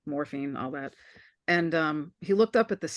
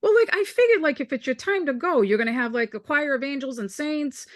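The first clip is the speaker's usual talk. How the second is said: retelling his brother's puzzled joke in a raised voice; incredulous brother; 6 semitones higher than usual. Retold or imitated. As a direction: play the brother, baffled and earnest. Brother describing expected deathbed angels.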